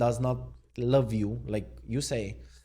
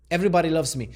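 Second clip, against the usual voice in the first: loud, higher boastful declaration; terrible Trump; 4 semitones higher, 6 dB louder, much faster than usual. Acted. Vlogger attempting a terrible impersonation, boastful. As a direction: brag it in a badly faked presidential voice. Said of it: "Maybe I'm going to try to do an impersonation. It's going to be terrible".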